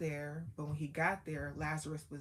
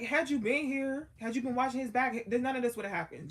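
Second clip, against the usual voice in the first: high, loud and fast reproach; accusing sisters; 7 semitones higher, 6 dB louder than usual. Retold or imitated. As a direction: hurl the blame quickly. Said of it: "And they like".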